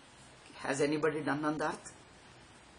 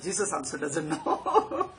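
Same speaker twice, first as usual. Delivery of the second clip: laughing; 2 semitones lower, slower than usual. Real, not acted. Chuckling punchline.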